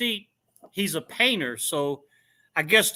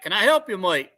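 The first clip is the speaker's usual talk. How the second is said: bad Australian accent; faster than usual. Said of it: "I don't have a good Australian accent".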